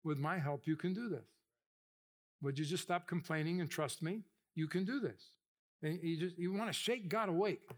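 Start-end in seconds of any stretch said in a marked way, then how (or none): 0.0-5.4 gentle God voice. Retold or imitated. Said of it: "He goes".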